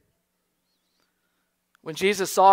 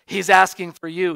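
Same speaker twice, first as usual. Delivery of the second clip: louder, leaning hard on "asking"; emphatic repeat; 7 dB louder than usual. Acted. Preacher urging the congregation that Jesus calls them, emphatic. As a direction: press the invitation home, stressing "asking".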